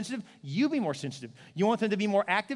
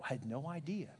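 mock surprised chatter; 3 semitones higher, 5 dB quieter than usual. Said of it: "She'd be like".

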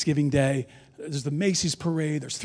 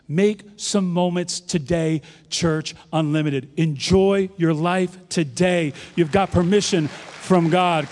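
emphatic preaching; 4 dB louder, slower than usual. Acted.

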